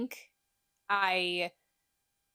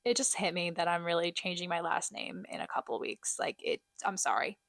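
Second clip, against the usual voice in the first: getting emotional; 2 semitones lower than usual. Real, not acted. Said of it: "I can't get emotional".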